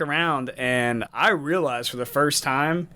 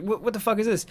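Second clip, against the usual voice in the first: higher stunned what the fuck; a retold baffled outburst, higher; incredulous; 7 semitones higher, faster than usual. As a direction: disbelief at the door charge. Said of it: "I was like".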